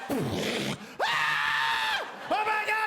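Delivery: high, panicked shout at the car. Pretend. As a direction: scream as the Cadillac comes. Victim 39 sees the Cadillac.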